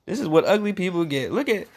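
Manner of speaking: fast, teasing jeer; mocking aside. Real, not acted. Parent teasing the picture of the stepsister, fast jeering. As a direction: poke fun at the ugly stepsister.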